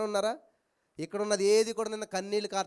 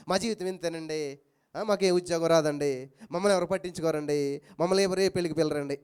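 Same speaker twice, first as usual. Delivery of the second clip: mock complaining; 5 semitones lower than usual. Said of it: "అశుభమే పలుకుతారు".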